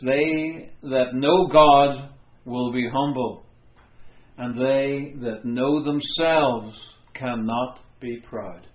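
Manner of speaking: slow, weighty reading of They that know God; slow quotation. Shown as a demonstration. Preacher quoting the Puritan John Flavel, slow and solemn. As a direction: draw each phrase out solemnly. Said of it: "He said this".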